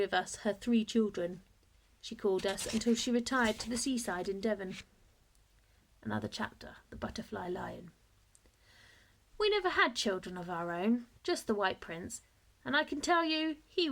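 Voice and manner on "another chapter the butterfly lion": soft whisper announcing the chapter; whispered heading. A narrator's reading. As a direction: breathe the chapter title.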